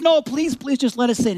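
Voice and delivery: high, urgent begging; pleading. Retold or imitated. Young driver begging to be let into the line, pleading. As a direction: plead like a kid wanting in.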